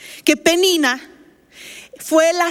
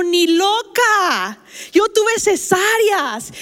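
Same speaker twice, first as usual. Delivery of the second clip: emphatic retort; 3 semitones higher, much slower than usual. Retold or imitated. Doctor's emphatic retold retort.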